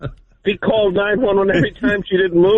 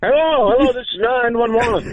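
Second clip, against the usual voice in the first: lightly voiced Shatner, a little higher, halting; a hint of Shatner making a mock emergency call; William Shatner impression; 4 semitones higher than usual. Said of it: "William Shatner calling from Beverly Hills".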